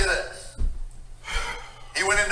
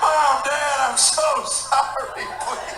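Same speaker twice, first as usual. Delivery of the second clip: high, slow, half-whispered begging; mock teary plea; 6 semitones higher, much slower than usual. Son begging his parents from boot camp, mock teary. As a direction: beg like a sobbing recruit.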